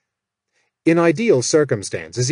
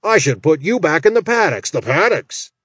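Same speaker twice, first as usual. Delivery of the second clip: imitating Malmore; 4 semitones higher than usual. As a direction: sneer the threat like an orc boss. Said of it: "imitation of Malmore's voice".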